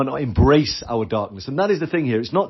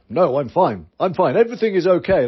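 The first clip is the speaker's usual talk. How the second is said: stiff upper lip; 4 semitones higher than usual. Retold or imitated. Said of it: "that stiff upper lip coming in".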